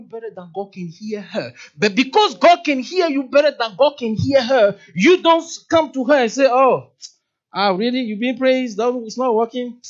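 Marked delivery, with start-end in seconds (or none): 6.5-9.8 proud tone. Retold or imitated. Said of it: "that's pride".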